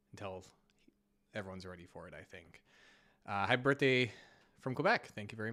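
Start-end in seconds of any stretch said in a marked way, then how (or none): 0.1-2.6 whispering. Acted. Teasing a rap battle.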